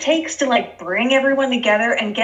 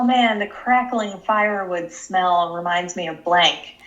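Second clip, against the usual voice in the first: low mock sentimental voice; 7 semitones lower than usual. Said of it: "they're like".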